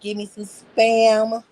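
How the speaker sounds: drawn-out loud craving; loud and slow. Real, not acted. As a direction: call for the Spam with gusto. Excited food wish.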